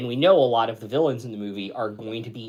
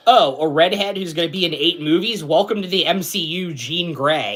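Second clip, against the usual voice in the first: excited shout; 8 semitones higher, 12 dB louder than usual. Retold or imitated. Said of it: "And it's like".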